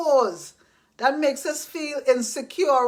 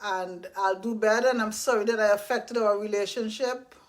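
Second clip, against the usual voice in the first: soft sincere apology; 5 semitones lower, 5 dB quieter than usual. Retold or imitated. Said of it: "I get to say that".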